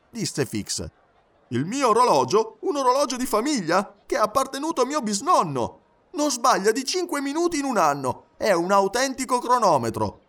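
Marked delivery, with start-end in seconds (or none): 1.5-10.2 high, loud, offended valet; affronted high-pitched defence; indignant Passepartout. Acted. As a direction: proudly protest in a much higher pitch. Passepartout defends his family watch.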